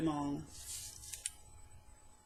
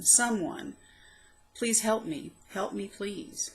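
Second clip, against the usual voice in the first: higher, desperate plea for help, slowing at the end; pleading; 4 semitones higher, slower than usual. Acted. Poet voicing her past self begging for help, pleading. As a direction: beg someone to help you.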